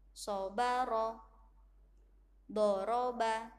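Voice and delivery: each word short, steady and even; short clipped reading. Shown as a demonstration. Teacher continuing the model reading in a steady beat. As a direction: keep every vowel short, teng teng. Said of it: "Bunda contohkan satu kali lagi".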